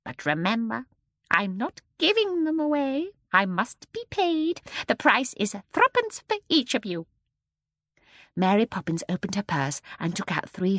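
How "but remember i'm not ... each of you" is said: serious. A narrator's reading. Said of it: "her face grew serious".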